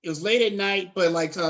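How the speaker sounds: usual speaking voice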